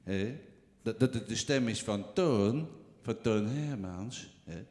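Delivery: lage, trage stem van een oudere komiek; Toon Hermans imitatie. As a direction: zak diep en traag weg als een oude cabaretier. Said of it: "ik denk ongeveer zoiets als dit". (trage, lage imitatie van een oude komiek)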